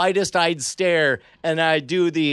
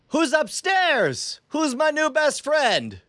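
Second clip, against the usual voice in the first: much higher, slow, taunting villain call; slow mocking villain greeting; supervillain voice; 10 semitones higher, slower than usual. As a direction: play the smug apocalypse bad guy. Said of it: "trying to sound like a supervillain".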